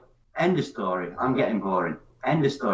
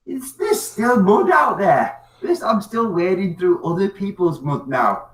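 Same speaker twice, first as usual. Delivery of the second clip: exasperated inner thought; 6 semitones higher than usual. Retold or imitated. Thinking aloud about other people's mess, weary and exasperated. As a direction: sigh it out like you're sick of wading through it. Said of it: "you think".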